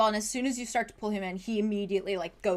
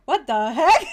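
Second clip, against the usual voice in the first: surprised; 6 semitones higher, 14 dB louder than usual. Retold or imitated. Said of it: "you're probably all like".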